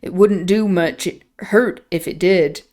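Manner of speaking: a light Yorkshire lilt on the line; lightly voiced rough Yorkshire lad; hint of a broad Yorkshire farmhand; Yorkshire accent. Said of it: "He answered in his vulgar accent".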